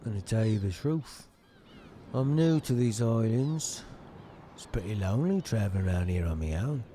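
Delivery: friendly newcomer. Acted. Voices game dialogue.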